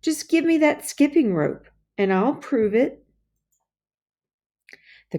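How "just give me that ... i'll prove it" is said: retort. Acted. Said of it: "John retorted".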